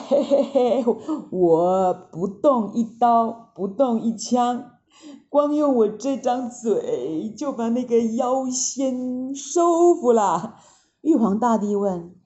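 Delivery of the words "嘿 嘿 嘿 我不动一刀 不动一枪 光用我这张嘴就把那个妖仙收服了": smug boast. Acted. Envoy boasting to the Jade Emperor, smug. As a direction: gloat over winning without a fight.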